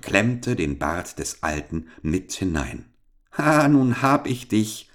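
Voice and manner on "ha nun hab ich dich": triumphant. Acted. Boy traps the giant's beard.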